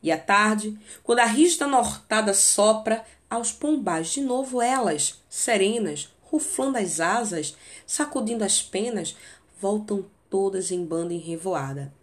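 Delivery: a teacher reciting a melancholy sonnet; poem reading. Acted. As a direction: read the verses like a recital. Reads the sonnet aloud.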